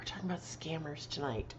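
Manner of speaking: hushed whisper of the topic. Real, not acted. Telling viewers tonight's topic, whispered.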